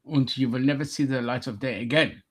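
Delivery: mock-menacing German accent. German threatens the immigrant, mock German accent. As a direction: threaten him as a cartoon German. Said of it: "speaking in a German accent".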